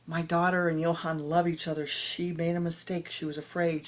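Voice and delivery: put-on girl's father shouting down the angry mob; urgent shouting. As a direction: stop the crowd before they throw stones. Father halts the stone-throwing crowd.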